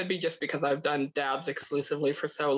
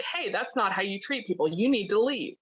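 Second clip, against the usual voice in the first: scolding stranger; 4 semitones higher than usual. Pretend. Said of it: "some random person just sitting enjoying dinner being like".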